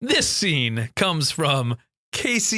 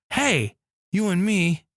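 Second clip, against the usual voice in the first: put-on New York accent; 5 semitones higher than usual. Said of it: "I got into my New York accent again".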